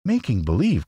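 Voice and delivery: put-on high girl's exclamation; shocked little girl; astonished cry. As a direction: echo it back in high-pitched disbelief. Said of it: "cried Dorothy".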